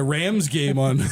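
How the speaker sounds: ordinary delivery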